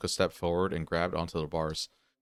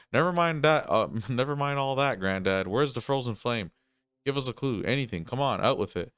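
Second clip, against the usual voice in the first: higher, louder, pushing for an answer; annoyed and desperate; 5 semitones higher, 3 dB louder than usual. Acted. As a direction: press him hard, impatient. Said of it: "more annoyed or more desperate".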